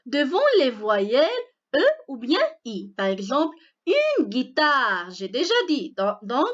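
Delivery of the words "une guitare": slow, drawn-out "une guitare", silent U in guitare; careful pronunciation. Shown as a demonstration. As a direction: say "guitare" with hard G straight into I. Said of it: "on ne prononce pas la lettre U".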